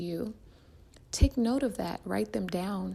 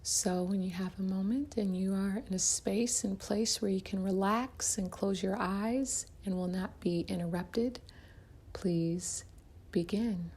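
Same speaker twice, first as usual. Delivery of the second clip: soft-edged, unhurried meditation guide; guided meditation; 4 dB quieter than usual. Acted. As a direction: ease the listener gently into relaxation, leaving room to breathe.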